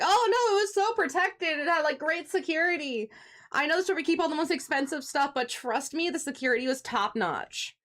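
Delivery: a hint of a hammed-up witness, high at first; lightly mock the future testimony. Predicting a witness after the murder, mock dramatic then easing. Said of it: "they're setting the scene 'cause there's gonna be a murder".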